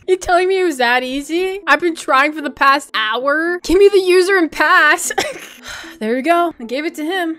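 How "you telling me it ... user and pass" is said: high, loud, incredulous; can't believe it was that easy; thrilled, disbelieving outburst; excited disbelief. Real, not acted. Stranger instantly agrees.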